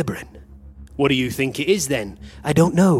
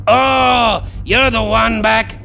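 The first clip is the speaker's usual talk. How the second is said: surprised shout; 6 semitones higher, 3 dB louder, slower than usual. Acted. Surprised by the one back.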